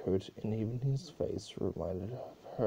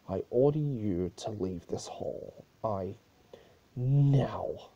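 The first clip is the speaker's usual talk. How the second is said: stern order; 5 dB louder, slower than usual. Acted. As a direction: order him out, snapping the final word. Princess orders guard out.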